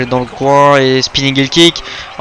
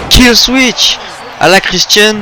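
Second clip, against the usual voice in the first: excited shout; 8 semitones higher, slower than usual. Real, not acted. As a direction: scream the name of the move. Commentator calling a finisher.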